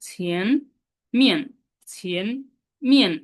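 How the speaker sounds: ছিয়ানমিয়ান slowly with a falling মিয়ান; slow correct pronunciation. Shown as a demonstration. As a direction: draw out ছিয়ানমিয়ান syllable by syllable. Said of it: "আমরা উচ্চারণটা শুদ্ধ করবো". (ধীরে শুদ্ধ উচ্চারণে ছিয়ানমিয়ান)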